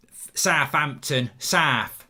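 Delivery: "Southampton" said as "Safampton", th turned to f; "South" said "Saf", with an f for th; southern Saf. Shown as a demonstration. Fan from down south saying "Southampton" and "South" as "Saf". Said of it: "I call it South 'cause I'm from down south".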